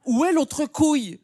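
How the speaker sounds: sudden high alarmed cry; alarmed outcry. Acted. Comic to audience, panicked mock outcry. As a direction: demand it in mock horror. Comic outrage over the phrase.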